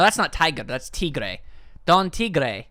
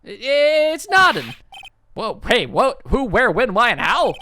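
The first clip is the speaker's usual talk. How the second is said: high, put-on gushing voice; flustered tiger boss; 7 semitones higher, 4 dB louder than usual. Tiger to woman who knocked over ashtray, flustered fondness. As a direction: go from stammering to sweet-talking.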